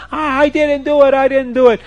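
high, mock-crying protest; storyteller's lightly acted crying girl; tearful denial. A narrator's reading. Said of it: "and she's crying. She says".

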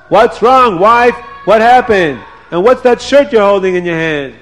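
worried husband; concerned husband. Acted. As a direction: rush to ask what happened. Potiphar alarmed by wife.

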